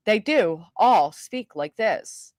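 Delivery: slow, measured mock broadcast speech; broadcaster voice. Streamer agreeing that broadcasters all speak like this, imitated broadcast voice. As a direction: space it out like a trained newscaster. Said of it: "trained to lose our local speech".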